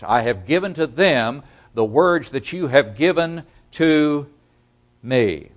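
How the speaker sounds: "words" given weight, measured emphatic quoting; stress on words. Shown as a demonstration. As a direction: lean on "words", pausing before "me". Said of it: "Notice the emphasis on the words".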